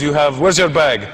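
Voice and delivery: put-on slow, stern Arab accent; imitated angry Arab officer. Airport officer questions the comedian, imitated Arab accent. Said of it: "an angry Arab dude".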